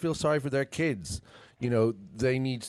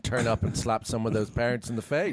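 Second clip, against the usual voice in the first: louder, fired-up indignation at the parents; indignant outburst; 4 semitones higher, 10 dB louder than usual. Real, not acted. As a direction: speak up hot with outrage. Outraged at homophobic parents.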